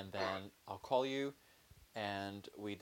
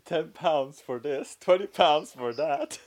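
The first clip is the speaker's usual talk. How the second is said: loud, slow, drawn-out pitch; sultry sales pitch; 5 semitones higher, 11 dB louder, slower than usual. Pretend. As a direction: sell it like a seedy hotline. Mock sex line pricing.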